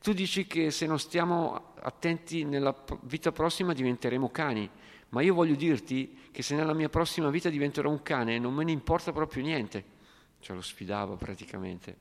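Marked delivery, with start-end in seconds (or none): 0.0-10.0 lightly voiced young hippie, pitched higher; cocky challenge, a bit raised and higher; defiant hippie. A hint of a young hippie challenging the Swami, higher. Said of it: "Un giovane hippie".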